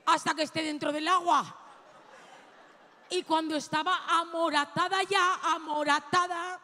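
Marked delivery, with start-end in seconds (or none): 0.1-1.4 mock determined shout. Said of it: "metí tripa y dije".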